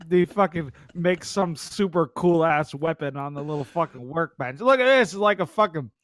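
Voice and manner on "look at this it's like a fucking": high excited mock of a friend; imitating Flint. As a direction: show off the weapon in a raised voice. Quoting Flint showing weapon.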